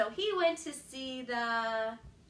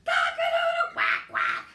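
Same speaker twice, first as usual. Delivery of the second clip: very loud, high crow dropping low; big crow; 11 dB louder than usual. A narrator's reading. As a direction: shout it with a full breath. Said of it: "took a very deep breath and said".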